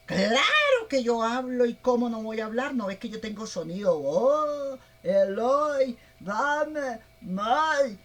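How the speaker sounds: the donkey insisting she can talk; indignant donkey. Acted. The donkey answers Balaam, loud and indignant. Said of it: "cuando le dijo".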